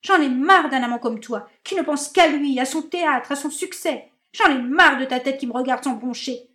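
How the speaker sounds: high, loud, shrill-pitched rant; furious tirade. Acted. Marinette raging at her indifferent lover, loud high tirade. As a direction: hurl every grievance at him.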